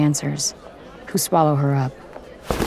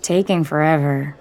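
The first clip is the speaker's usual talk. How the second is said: bored. Acted. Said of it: "trying to sound bored".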